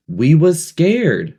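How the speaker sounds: high, loud and slow, agitated; excitedly. A narrator's reading. Piggy agitated with Ralph, high and loud. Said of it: "said Piggy excitedly".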